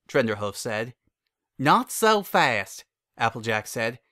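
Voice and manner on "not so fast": firm halt. Acted. Applejack stopping Trenderhoof.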